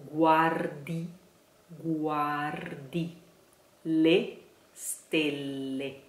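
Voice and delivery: guardi with the weight on the first A; stress on guardi A. Shown as a demonstration. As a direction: hit the A of guardi. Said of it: "stress on the A".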